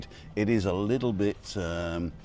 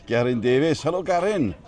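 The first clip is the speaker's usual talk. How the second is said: lilting mock Welsh greeting, a touch higher on hello; Welsh accent; 4 semitones higher, 4 dB louder than usual. Greeting viewer Garin on the stream in a light Welsh accent. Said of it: "love saying Garin Davis in Welsh accent".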